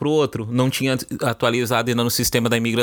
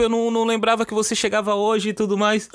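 1 flustered apology; 10 semitones higher than usual. Retold or imitated. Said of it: "eu fiquei desesperado".

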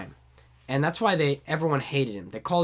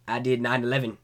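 understated presidential impression; only a hint of the president; lightly voiced George W. Bush; 2 semitones lower than usual. First failed try at the president, lightly voiced. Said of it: "let me show you my George W".

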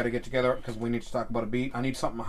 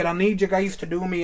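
higher, put-on Scottish burr; mock Scottish accent; 4 semitones higher than usual. Host drifting from Irish, mock Scottish accent. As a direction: slide into a bad Scottish accent. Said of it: "I'm going Scottish now".

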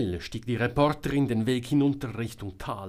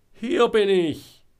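high, drawn-out distant shout; calling out; 11 semitones higher, 11 dB louder, slower than usual. A narrator's reading. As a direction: call back slowly and very loudly. Georg calls back from hiding. (laut und gedehnt rufen)

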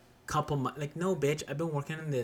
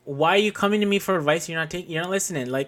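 angry rant; 5 dB louder, faster than usual. Real, not acted. Heated rant about ignored advice.

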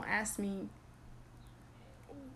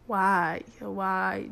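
exasperated why; 6 dB louder than usual. Real, not acted. Exasperated at backhanded compliments.

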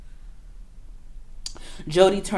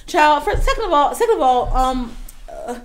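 much higher, louder, fired-up protest; exasperated outburst; 9 semitones higher, 7 dB louder than usual. Real, not acted. Arguing with her friend, exasperated and loud. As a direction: push back hard, voice climbing.

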